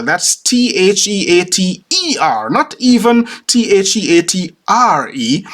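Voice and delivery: a touch of American stubbornness; staunch spelling out. Retold or imitated. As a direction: spell it out with insistence. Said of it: "the American staunchly insisted".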